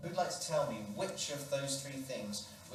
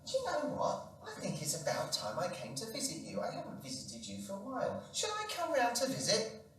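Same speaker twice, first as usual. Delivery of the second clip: much higher, excited friend voice; chirpy friend; 9 semitones higher than usual. Acted. Friend chatting to the old man, high and chirpy. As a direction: gush like a cheery friend.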